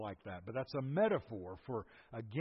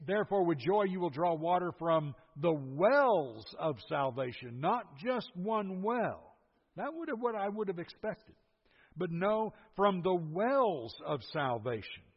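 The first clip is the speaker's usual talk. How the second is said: emphatic preaching; 4 semitones higher, 3 dB louder than usual. Acted. Preacher pressing the plural point.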